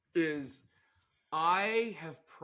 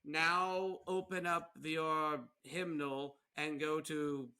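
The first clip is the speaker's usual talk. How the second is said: imitated preacher; slower than usual. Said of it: "But then they'll be like".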